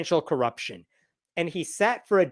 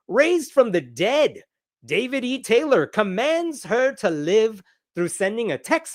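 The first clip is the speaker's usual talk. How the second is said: mock dramatic headline; 5 semitones higher than usual. Reading a miracle headline aloud.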